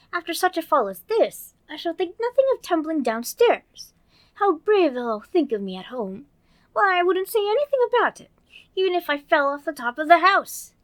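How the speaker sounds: put-on high, bright little girl voice; Alice voice. Narrator voicing Alice, girlish and eager. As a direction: play young Alice talking to herself.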